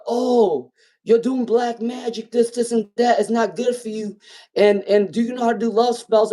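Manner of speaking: high mocking voice of a nosy skeptic. Reader mimicking people who ask for love spells, high and mocking. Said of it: "people always be like".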